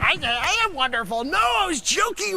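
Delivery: high, loud protesting yell; indignant shout. Acted. To Cubes about the air quotes, an outraged high shout. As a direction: shout your innocence, outraged. Defending his joke to Cubes.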